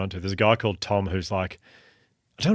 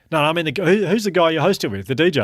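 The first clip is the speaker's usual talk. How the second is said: fan's voice; 8 semitones higher, 5 dB louder than usual. Retold or imitated. Fan voiced in anecdote.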